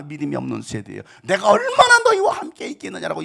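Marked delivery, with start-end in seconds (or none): 1.2-3.2 very high, loud reproach; thundering rebuke. Acted. Jesus scolding his disciples, thundering. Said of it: "예수님은 제자들을 호통치시는 거예요".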